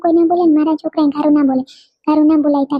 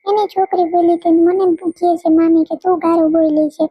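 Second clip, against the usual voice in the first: put-on a kid reporting what her aunt said; complaining child. Little girl complains to her mother about her aunt.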